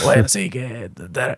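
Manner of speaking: slow, worn-down, drawn-out sick-sounding voice. Showing how a flu-hoarse voice sounds like RFK: RFK voice. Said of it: "hablando un poco como R F K".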